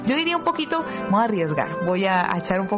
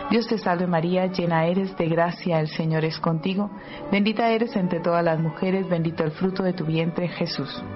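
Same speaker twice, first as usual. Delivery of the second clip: recited prayer. Real, not acted. Host leading the Hail Mary before the interview, reciting.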